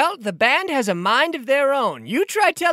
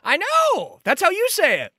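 sarcastic; 9 semitones higher than usual. Acted. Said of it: "when somebody says it like that".

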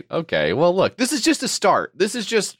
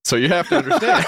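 laughing while talking; faster than usual. Real, not acted. Talking on while both crack up.

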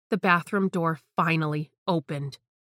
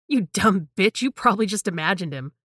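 mocking insult; 4 dB louder than usual. Tara mocks her friend loudly.

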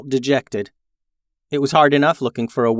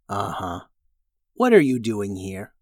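dragon voice; 3 semitones lower than usual. Acted.

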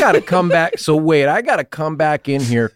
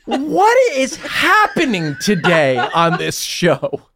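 laughing in disbelief; 5 semitones higher, slower than usual. Real, not acted. Exasperated laugh at teasing.

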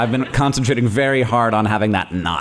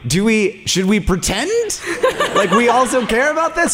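mock conspiratorial whisper-plan; 10 semitones higher than usual. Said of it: "Catherine and I were like".

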